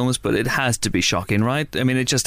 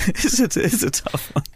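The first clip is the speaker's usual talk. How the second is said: higher, slow, hammed-up stage Irish; mock Irish lilt; 8 semitones higher than usual. Podcaster mulling bad film Irish accents, slow mock Irish lilt. Repeats phrase in put-on voice.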